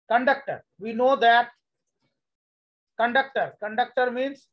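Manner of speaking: choppy broken-up call audio; call dropping out. Real, not acted. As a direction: voice cutting in and out. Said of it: "sir, आपका आवाज cut रहा है".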